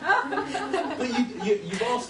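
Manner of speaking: high, loud words through laughter; laughing while talking. Real, not acted. Speaker backpedalling to the audience, laughing through it. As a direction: still giggling while you backpedal. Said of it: "I never actually say this".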